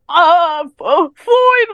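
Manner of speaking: high, loud, drawn-out call; calling out for dad. Retold or imitated. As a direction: imitate mom yelling for her husband. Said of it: "was, like, calling my dad".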